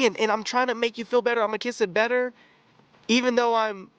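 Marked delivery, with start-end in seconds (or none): 0.3-2.3 quick, lightly voiced mock comfort; sadistic coaxing. Character comforting partner, lightly mocked sadistic coaxing. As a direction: coo it like fake comfort, fast. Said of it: "that sadistic coaxing".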